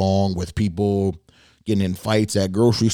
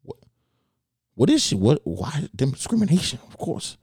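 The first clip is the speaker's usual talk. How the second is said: puzzled inner thought; 6 semitones higher than usual. Retold or imitated. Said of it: "now I'm thinking".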